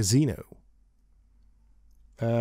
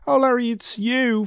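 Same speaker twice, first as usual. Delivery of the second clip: higher playful woman voice; a touch of a flirty woman; Fawn voice; 9 semitones higher than usual. A narrator's reading. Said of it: "Fawn says".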